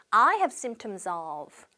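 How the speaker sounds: very slow, careful English model sentence; slow model phrase. Shown as a demonstration. Teacher modelling a travel phrase, very slow and clear. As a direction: spell out each word slowly for learners. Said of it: "한 번 더".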